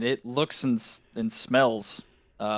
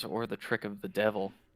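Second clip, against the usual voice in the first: hushed, quiet, soft murmur; 6 dB quieter than usual. Voicing a character's reply when a player asks about the hooded figure, quietly. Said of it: "Irina kind of quietly says".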